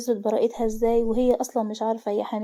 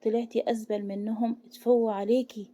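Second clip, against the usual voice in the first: contempt; 3 dB quieter than usual. Acted. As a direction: look down on her with disgust. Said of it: "باستحقار". (باستحقار وقرف)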